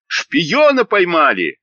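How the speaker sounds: gleeful cry. A narrator's reading. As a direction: crow it like street boys. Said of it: "весело кричали".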